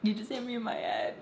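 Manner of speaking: imitated tearful protest; retold crying. Girlfriend to boyfriend who hit her, mock tearful protest. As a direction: act out a mild crying complaint. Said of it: "and I am crying".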